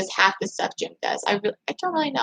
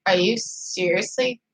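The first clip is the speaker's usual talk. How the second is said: mock disbelief; 3 semitones lower, 4 dB quieter, slower than usual. Acted reaction to Jim's line.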